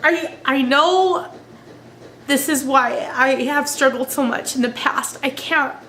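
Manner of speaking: tearful, voice breaking, talking through tears; crying while trying to keep talking; snotty crying. Real, not acted. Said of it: "I'm sorry to cry about it".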